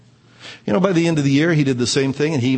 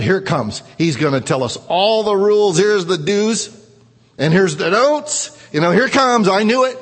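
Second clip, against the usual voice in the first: mock dread; 3 semitones higher, 4 dB louder than usual. Kid bracing for the rules.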